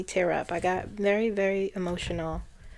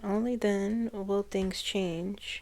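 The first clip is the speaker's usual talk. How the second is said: halting read; 7 dB quieter, slower than usual. Real, not acted. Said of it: "What is that word?".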